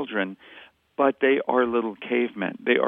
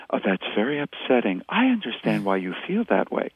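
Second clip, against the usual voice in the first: low, measured, understanding tone; mock-soothing reasonable adult, a little lower; calm, normal phrasing; 3 semitones lower than usual. Shown as a demonstration. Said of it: "nice, calm, normal phrases".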